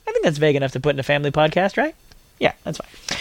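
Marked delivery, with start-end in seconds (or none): 2.4-3.2 whispered aside. Real, not acted. Whispered aside about podcast content.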